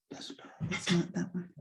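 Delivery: very soft, to yourself; muttered aside. Real, not acted. Poet fumbling with screen share, muttered aside. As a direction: murmur it while hunting for the right file.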